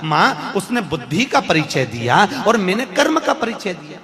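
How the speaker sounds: acted hurt son pleading with his mother; mock-tearful, wounded protest; tearful complaint. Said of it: "Kartikeya रो पड़े".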